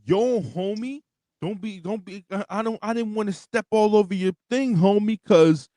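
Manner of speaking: a lightly put-on street accent, imitating Logan Paul's bad black accent; mock the fake black accent, homie-style. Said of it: "that's literally what you sound like".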